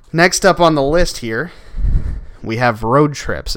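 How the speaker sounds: breathless, slow and winded; talking while short of breath. Real, not acted. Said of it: "sorry if I seem out of breath".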